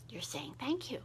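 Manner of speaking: "you're saying thank you" in a soft unvoiced whisper; whispered aside. Shown as a demonstration. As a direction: hush it as if at the table. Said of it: "whispered demo of silent thanks".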